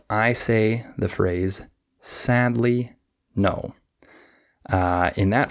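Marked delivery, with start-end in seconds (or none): 2.0-3.7 SAD and "no" stressed, "ly" light between them. Shown as a demonstration. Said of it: "I would stress the first syllable".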